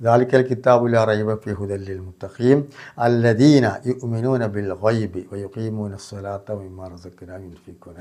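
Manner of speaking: slow, drawn-out tajweed recital fading at the end; Quran recitation. Shown as a demonstration. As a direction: chant the verse slowly, letting the last words fall away. Full verse recited slowly. (പതുക്കെ ഖുർആൻ പാരായണം)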